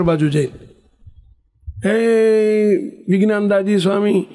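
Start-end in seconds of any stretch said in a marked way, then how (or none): 1.9-4.3 demonstrated holler without real volume; calling out. Acted. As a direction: stretch the name as if calling from a rooftop. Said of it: "બૂમો પાડજે".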